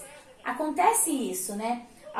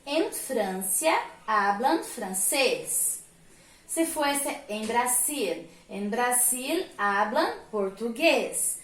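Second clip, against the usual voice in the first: slow model sentence; slower than usual. Shown as a demonstration. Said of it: "Na letra A está falando sobre França".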